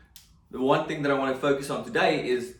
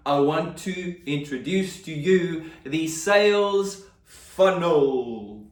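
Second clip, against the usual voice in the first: drawn-out, louder reveal; dramatic announcement; 4 semitones higher, 3 dB louder, slower than usual. Pretend. Presenter unveils the sales funnel to viewers, dramatic announcement. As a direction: announce it slowly like a big unveiling.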